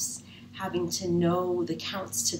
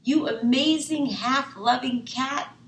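higher, louder delighted praise; excited praise; 8 semitones higher, 6 dB louder than usual. Acted. Peg thanking Kat, excited and loud. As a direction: cheer your clever cat.

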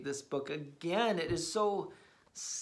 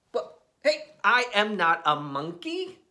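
mock protest; 3 semitones higher, 6 dB louder than usual. Reader protests monkey line.

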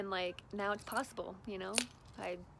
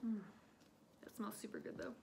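whispered mm of pleasure; savoring a smell; 8 dB quieter, faster than usual. Real, not acted. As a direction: breathe it out, savoring. Sniffing the scrub.

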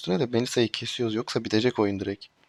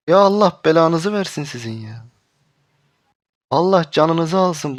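angry cursing; 4 semitones higher, 6 dB louder than usual. Real, not acted. Cursing teammates.

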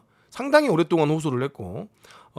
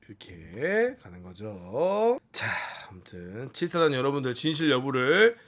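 normal talking voice

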